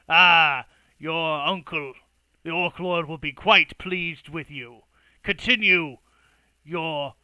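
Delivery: loud, hearty approving voice; proud orc elder. Acted. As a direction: boom with pride. Orc praises his nephew.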